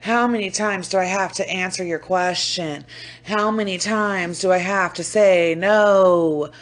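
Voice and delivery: re-enacted fed-up mom, dragging out the end; mock exasperation, stretched on the final demand; exasperated parent. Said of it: "and then I yell at you".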